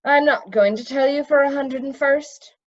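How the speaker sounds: a sharp rebuke from the wizard leader; irritated wizard. Acted. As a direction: put him firmly in his place. Zeminar scolding.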